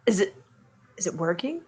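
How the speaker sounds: deadpan. Acted. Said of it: "face palm ... and be like".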